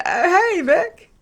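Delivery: high, delighted mock reply; high-pitched imitated friendly reply; client answering. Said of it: "And she said".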